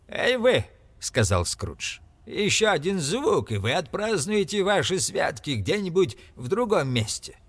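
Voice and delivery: threatening. A narrator's reading. Scrooge threatens the clerk.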